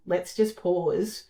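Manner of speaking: slow, gentle invitation to pause. Retold or imitated. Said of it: "that gentle".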